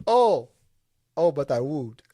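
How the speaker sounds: mimicked comic Carpathian character, opening loud and high; lightly put-on funny foreign accent; Janos. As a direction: start with a big high "oh" in mock-Carpathian. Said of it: "it's just the way he talked was funny".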